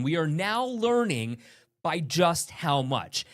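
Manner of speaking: measured, slow news delivery; news read. Acted. Anchor reading a story about unused city funds. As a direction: present it like a local news report.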